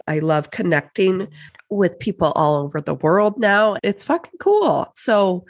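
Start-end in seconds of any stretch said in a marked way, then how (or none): 3.8-4.9 excited. Real, not acted. Enthusing about podcasting.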